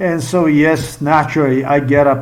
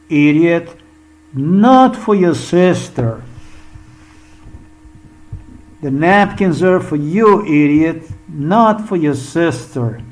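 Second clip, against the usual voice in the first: pointed retort; 2 semitones higher than usual. Retold or imitated. Acting out mother's pointed message.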